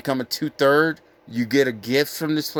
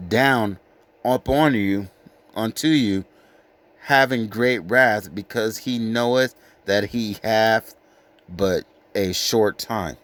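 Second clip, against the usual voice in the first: solemn scripture reading; 2 semitones lower, slower than usual. Acted. Preacher reads the devil's coming to the flock, slow and grave. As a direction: let the warning land slowly and darkly.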